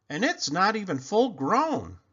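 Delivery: high, loud amazed mother; surprised mother. Acted. Mother marvels at the huge pumpkin, high and amazed. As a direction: gasp it out like a proud mum.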